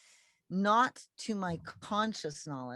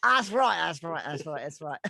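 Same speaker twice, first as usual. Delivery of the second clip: put-on Canadian accent; 5 dB louder than usual. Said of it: "How's my Canadian accent".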